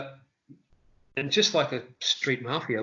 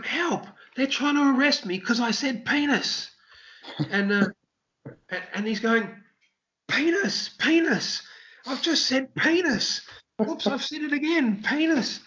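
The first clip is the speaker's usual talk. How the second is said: much higher, frantic mock protest; mock panicked yelling; 11 semitones higher than usual. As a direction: wail it like a comedian being arrested.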